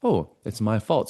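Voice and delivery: slow, accepting admission of fault; matter-of-fact realization. Acted. Owning one's part without guilt, accepting realization. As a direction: own it without any shame, taking your time. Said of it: "But it's like".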